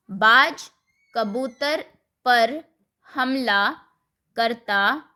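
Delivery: बाज कबूतर पर हमला करता each word apart, बाज loud. Shown as a demonstration. Teacher dictating the reordered sentence slowly. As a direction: space every word with pauses. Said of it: "वाक्य को सही क्रम में लिखो".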